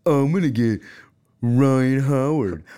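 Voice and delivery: mock boastful singsong of the kid; taunting kid. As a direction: imitate the kid bragging, drawn out. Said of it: "He was saying".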